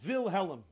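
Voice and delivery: "Wilhelm" said as "vil helem", with a V; punning pronunciation. Shown as a demonstration. Rebbe explains his pun on the Kaiser, "Wilhelm" as "vil helem". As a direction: break "Wilhelm" into "VIL HEL-em". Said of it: "He wants concealment".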